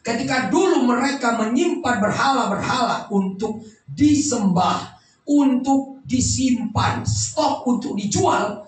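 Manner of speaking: emphatic, drawn-out sermon delivery; preaching. Real, not acted. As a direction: preach it with measured, forceful phrasing. Preaches with full force. (khotbah penuh penekanan)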